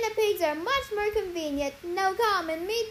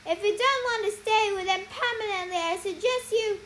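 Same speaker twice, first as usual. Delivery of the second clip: warning; 4 semitones higher, 4 dB louder than usual. Acted. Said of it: "she warned".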